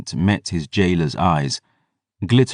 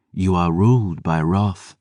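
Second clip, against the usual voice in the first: cold Selene voice. Acted. Selene's verdict.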